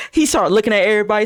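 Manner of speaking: ordinary delivery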